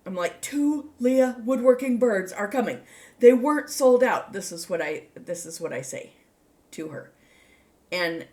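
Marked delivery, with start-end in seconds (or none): 0.4-4.3 loud, high mock-shouted text; all caps. Telling a friend by text that birds are coming, mock shout. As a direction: read it out as an all-caps announcement. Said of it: "in all caps".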